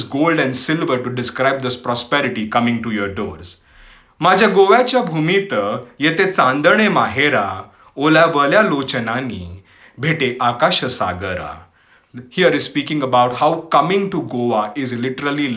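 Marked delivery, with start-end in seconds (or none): 4.2-11.5 poem recitation. Acted. Host recites Marathi poem on Goa to listeners, poetic recitation. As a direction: recite in measured phrases, pausing between lines.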